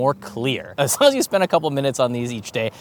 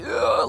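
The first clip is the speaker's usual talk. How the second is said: out of breath groan. Shown as a demonstration. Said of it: "they're running out of air, and it's like".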